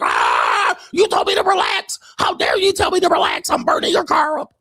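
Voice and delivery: high, shrieking mock outrage; hysterical woman. Woman screaming at the man who told her to relax. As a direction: shriek like she's losing it. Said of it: "They're like".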